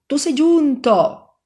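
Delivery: high, slow, loud cry in the verse; shouted cry. Acted. Devil shouting at the fleeing Navarrese, loud high cry. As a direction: cry it out as the devil lunging after him. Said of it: "Però si mosse e gridò".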